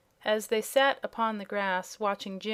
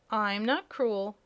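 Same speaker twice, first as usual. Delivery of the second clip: yawning kitten; slower than usual. Acted.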